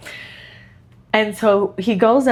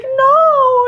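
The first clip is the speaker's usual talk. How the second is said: put-on high, loud defiant toddler no; mock stubborn toddler; toddler defiance; 5 dB louder than usual. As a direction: bark back a child's flat refusal. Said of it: "And he's like".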